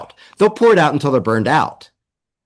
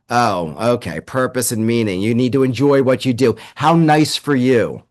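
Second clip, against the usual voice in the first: condescending client unimpressed by the idea; sceptical executive. Acted. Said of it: "I can channel some of my executive clients here".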